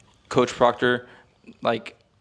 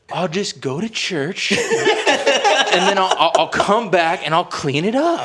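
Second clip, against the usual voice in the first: laughing through it; 6 semitones higher, 3 dB louder than usual. Retold or imitated. Retelling his drunk plan, laughing.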